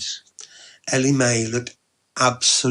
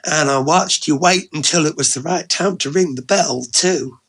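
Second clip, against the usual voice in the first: lightly voiced friendly woman, slightly lifted; a hint of playful teasing at the door; Ellie Mae, friendly and teasing; 4 semitones higher, 3 dB louder than usual. Ellie Mae's dialogue.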